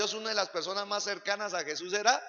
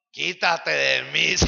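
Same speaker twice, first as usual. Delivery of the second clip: slow, loud "Quítate de mí"; preacher showing the bold answer loudly; loud rebuke; 3 semitones lower, 11 dB louder, slower than usual. Shown as a demonstration. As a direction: bark it at the tempter. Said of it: "como le dijo Jesús a Pedro".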